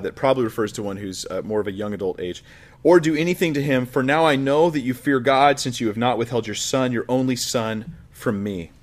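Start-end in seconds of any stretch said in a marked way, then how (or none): 2.8-8.7 raised, solemn Bible reading; scripture reading. Acted. Preacher reading Genesis to the congregation, solemn. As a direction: read it as the drama builds.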